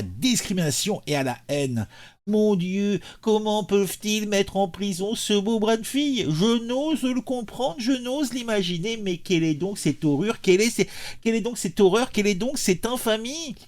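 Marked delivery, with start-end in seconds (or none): 2.3-13.5 theatrical lament, pitch often lifted; hammed-up horror, drawing out the disbelief; mock outrage. Mock outrage over a condemned militant. (indignation faussement tragique)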